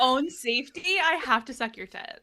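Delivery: mock-earnest line through laughter; laughing parody. Friend parodying the hero's venom line, laughing. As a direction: ham up the hero's urgency. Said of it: "mocking the hero's line".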